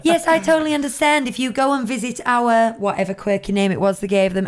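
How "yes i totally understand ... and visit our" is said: bright, higher customer-service voice; sweet cast member. Retold or imitated. Cast member calmly answering an angry guest, sugary and higher. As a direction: soothe the guest with sugary politeness. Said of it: "the cast members were going".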